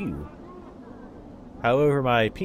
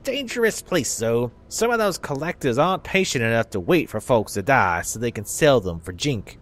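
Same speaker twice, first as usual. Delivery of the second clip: put-on southern accent. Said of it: "give old people southern accents".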